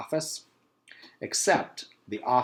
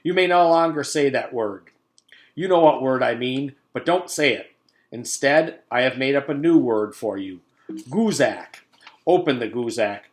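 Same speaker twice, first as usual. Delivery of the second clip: loud, grand proclamation; declaring; 3 semitones higher, 9 dB louder than usual. Acted. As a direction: announce it with authority. Principal's decree.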